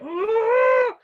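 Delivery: sudden high squeal of alarm; startled yelp. Retold or imitated. Retelling the spider scare, a high startled "Oh!".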